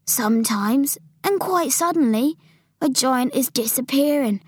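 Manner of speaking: lightly voiced giant with hushed, airy endings; BFG explaining. Giant telling Sophie of vanishing giants, mysterious. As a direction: tell it mysteriously, slowing down.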